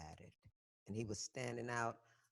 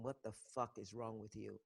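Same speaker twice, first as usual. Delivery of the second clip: through clenched teeth without moving the mouth; gritted teeth; 3 semitones lower, 9 dB quieter than usual. Retold or imitated. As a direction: hiss it with a still mouth. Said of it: "through my teeth, I didn't move my mouth".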